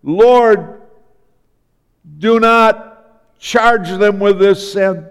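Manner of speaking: measured, pleading cry to the Lord; retold cry of a man praying. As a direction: cry out a prayer, drawing out the words. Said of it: "And he cries out".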